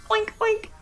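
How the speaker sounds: high-pitched piggy oinking; squeaky, playful double oinks. Pretend. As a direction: oink like a little pig. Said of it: "I'm a pig".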